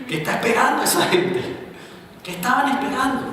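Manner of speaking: high, wondering voice; mock puzzled Jesus. Preacher imagining Jesus puzzled at the crowd.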